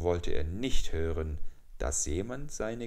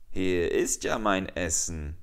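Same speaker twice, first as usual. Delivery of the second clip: a touch louder, pleased at spotting dinner; gleeful jackal; 4 dB louder than usual. Acted. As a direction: gloat lightly over the meal. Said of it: "heulte der Schakal erfreut". (leicht freudig gierig gesprochen)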